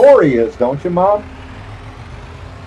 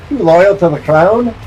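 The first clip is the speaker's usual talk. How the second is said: slow, higher, mock-stern question; hammed-up soldier demanding loyalty; mock redcoat, drawn out; 4 semitones higher, 3 dB louder than usual. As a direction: stretch the question like a sneering soldier. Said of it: "the British soldiers would be like".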